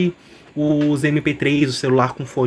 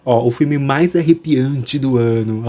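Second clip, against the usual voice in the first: velvety narrator voice; slower than usual. Acted. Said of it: "minha voz aveludada".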